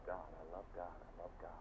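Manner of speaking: hushed, softly repeated; soft devotion. Acted. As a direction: murmur it to yourself, devoted. Intimate devotion ending sermon.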